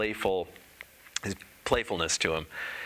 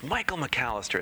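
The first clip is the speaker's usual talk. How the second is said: raised pitch, savoring the name; imitated hearty greeting; 5 semitones higher than usual. Columnist greets the teacher by name, imitated hearty greeting. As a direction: greet the name with playful delight. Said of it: "he goes".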